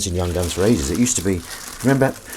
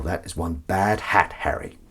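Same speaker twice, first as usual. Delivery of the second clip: film quote voice; 3 semitones lower, 4 dB quieter, slower than usual. Retold or imitated. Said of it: "do them in the voice as well".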